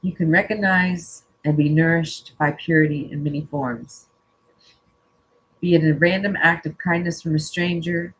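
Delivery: calm, measured reading of a card message; reading aloud. Acted. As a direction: read it out gently and evenly, like a spiritual message. Reads oracle card text aloud.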